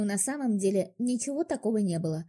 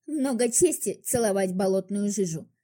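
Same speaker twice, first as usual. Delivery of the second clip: scornful. Acted. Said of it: "хмыкнула я в ответ и презрительно скривилась".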